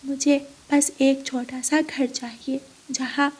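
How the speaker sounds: lightly voiced little bird, modest request; humble bird heroine. Ranu asks the tree only for a small house, humble.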